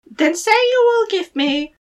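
high squeaky little goblin voice; gravelly sly hobgoblin. Acted. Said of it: "said the little man".

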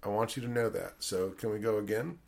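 put-on a hushed, heavy lecture to a child actor; director's quiet guilt trip. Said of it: "he goes".

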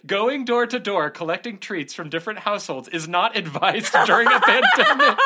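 high, slow, mock-solemn article read; mock official reading. Shown as a demonstration. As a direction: read it out like a stuffy warning notice. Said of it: "I just read that verbatim".

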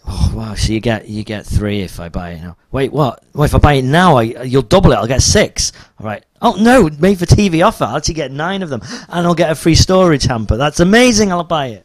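excited viewer. Retold or imitated. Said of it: "makes everyone watching it go".

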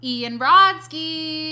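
loud, slow host call-out; game show host. Acted. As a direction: announce the contestant grandly. Quiz host introduces contestant.

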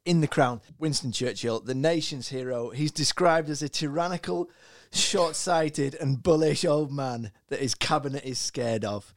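lightly formal read-out pitch; prepared little speech. Acted. Co-host pitches his actor choice to the group, lightly formal prepared speech. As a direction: deliver it like a mock campaign speech. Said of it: "he's prepared these little speeches".

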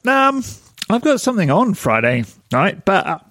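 hiccupy Rick Sanchez impression. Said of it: "Do I sound like Rick?".

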